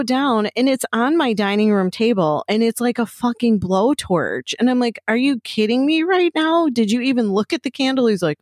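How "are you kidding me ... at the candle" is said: higher, incredulous scolding, a touch fast at the end; wife scolding husband over the blazing candle, exasperated; exasperated disbelief. Retold or imitated. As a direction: retell the outrage at him ignoring the candle.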